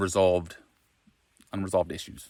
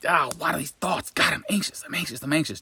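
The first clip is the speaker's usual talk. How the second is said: fretting voice pitched much higher; mock anxious fretting; 8 semitones higher than usual. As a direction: whine the worry in a high, panicky voice. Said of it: "what we end up doing generally is like".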